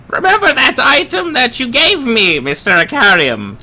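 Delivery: very high, loud, excited call. Acted. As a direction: yell it out eagerly. Stone voice calling loudly.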